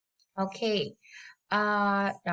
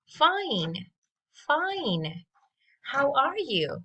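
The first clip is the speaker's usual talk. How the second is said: higher, bright teacher drill; high model; 5 semitones higher, slower than usual. Shown as a demonstration. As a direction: lift the voice to model for kids. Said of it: "let's listen and repeat after me".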